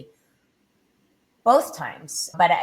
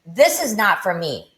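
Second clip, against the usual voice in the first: higher, desperate pleading, rising as it goes; retold desperate prayer, strained and raised; 5 semitones higher than usual. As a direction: beg to be taken, voice pushed up. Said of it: "and I prayed".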